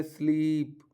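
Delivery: स्लीप with a lengthened ee; long ee. Shown as a demonstration. Teacher showing the double-e sound, long ee in स्लीप. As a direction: stretch the vowel in स्लीप. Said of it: "वहाँ पर उच्चारण थोड़ा लंबा".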